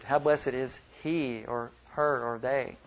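HE, HER and THEY each drawn out; measured list weighting HE, HER, THEY; stress on the pronouns. Shown as a demonstration. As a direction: slowly set apart he, her, they. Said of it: "Emphasize different viewpoints".

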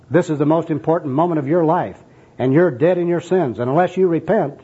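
lightly acted insistent soul winner; enthusiastic street evangelist. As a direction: press the point with zeal. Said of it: "here's the first personal worker".

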